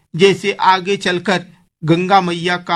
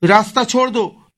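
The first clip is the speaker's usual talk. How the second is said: put-on children screaming; 6 semitones higher than usual. A narrator's reading. Kids in the orchard shout to each other, screaming. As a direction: shriek it like scared kids spotting the snake. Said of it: "चीख कर एक दूसरे से कहते".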